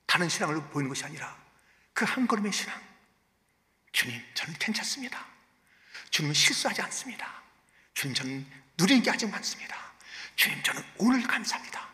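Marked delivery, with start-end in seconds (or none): 3.9-11.9 hushed prayer. Retold or imitated. Deacon's imagined prayer.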